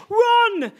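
high, drawn-out mock call; hammed-up cry. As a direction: cry out the name melodramatically. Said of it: "cried Harry".

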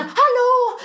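high, loud clapping shout. Retold or imitated. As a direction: bark a loud hallå to wake him. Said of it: "Så här, liksom".

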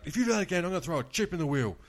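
loud, high-pitched mock warning; retold angry threat. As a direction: imitate a fuming gambler threatening the dealer.

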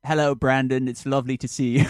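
attempted English accent, parroted back; careful imitation of an English greeting. Shown as a demonstration. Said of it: "Okay, my English accent?".

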